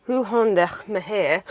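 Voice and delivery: slow "Hoe gaan dit met jou?" with a rough throaty G; attempted Afrikaans. Shown as a demonstration. Sibling trying an Afrikaans greeting from viewers, attempted Afrikaans. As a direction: try the Afrikaans G in "gaan", laughing. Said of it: "do the G".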